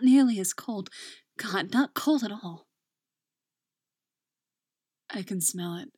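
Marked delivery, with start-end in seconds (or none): 5.1-5.9 hoarse. Acted. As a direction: rasp it out hoarsely. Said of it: "he says hoarsely".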